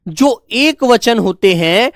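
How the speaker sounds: measured, each word drawn out; slow repetition. Shown as a demonstration. Teacher restating the rule for pupils, slow and measured. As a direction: repeat it slowly so pupils keep up. Teacher repeats slowly for class.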